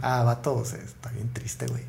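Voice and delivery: put-on hushed, sad Monterrey regio accent. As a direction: whisper it sadly in a regio accent. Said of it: "Ya con acento regio".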